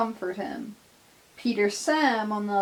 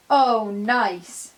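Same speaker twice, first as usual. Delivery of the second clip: cross sarcasm; 5 dB louder than usual. Acted. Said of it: "Edward says crossly".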